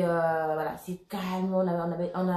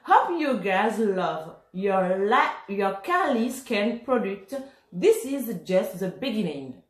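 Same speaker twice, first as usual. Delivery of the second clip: slow English read in a French accent; slower than usual. Real, not acted. Reading Kylie's English note to viewers in a French accent. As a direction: read the card aloud carefully, French accent. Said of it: "Ne vous moquez pas de mon accent".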